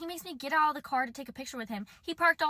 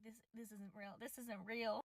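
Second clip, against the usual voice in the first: stunned disbelief; 16 dB quieter than usual. Retold or imitated. Disbelief while hiding from him.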